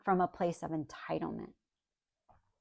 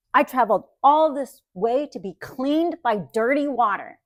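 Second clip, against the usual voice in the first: loud, higher outraged rant, pushed fast at first; indignant Naaman; 4 semitones higher, 5 dB louder than usual. Retold or imitated. Pastor voicing Naaman raging at the prophet, loud indignant rant. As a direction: storm at the prophet like an insulted general. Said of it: "is basically what he was saying".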